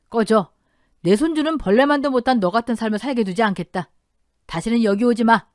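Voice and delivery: acted angry rebuke, firmly pushed; stern dismissal. Father-in-law driving out his disgraced wife, stern and angry. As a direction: order the person out for good.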